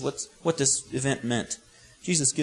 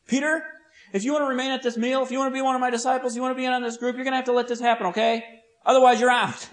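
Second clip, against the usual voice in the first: strong warning; 7 semitones higher, faster than usual. Acted. Jesus penetrates Peter's thick skull, strong ultimatum. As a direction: lay down the terms fast, then land the threat. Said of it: "had to say something strong".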